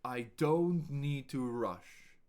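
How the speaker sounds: slow projected take. Shown as a demonstration. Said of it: "Listen and repeat out loud".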